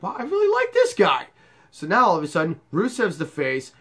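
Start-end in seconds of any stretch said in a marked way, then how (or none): 0.0-1.3 high, louder gushing; overjoyed mock quote; mock delight. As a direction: gush like a sudden fan. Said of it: "it's like".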